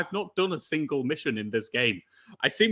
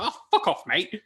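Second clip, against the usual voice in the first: hammed-up stereotypical Irish accent, laughing through it; jokey put-on Irish accent; 5 semitones higher than usual. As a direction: toss it off in a mock Irish accent. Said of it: "in my stereotypical Irish accent".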